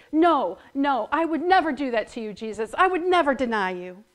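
insisting. Acted. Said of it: "he insisted".

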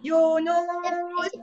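name stretched very slowly; drawn-out call. Real, not acted. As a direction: call the name out long and slow. Teacher calling child to answer.

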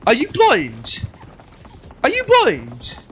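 drawn-out, incredulous question; indignant challenge, stretched out. Real, not acted. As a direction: demand it in slow, exasperated disbelief. Indignant at viewers about lag.

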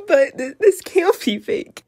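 high mock despair; high laughing wail. Laughing squeal.

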